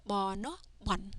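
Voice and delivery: letter names first, then the syllable "Bon"; teacher spelling "Bo, No, Bon" step by step; spelling-out demo. Shown as a demonstration. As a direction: sound out "Bo, No", then blend into "Bon". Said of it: "Here's how we read it".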